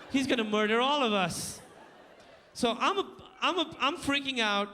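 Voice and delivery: ordinary delivery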